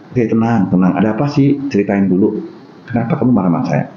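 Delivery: low, gentle and soothing; calm an angry friend with empathy; empathetic calm. Retold or imitated. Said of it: "Tunjukin, eh, empati kita".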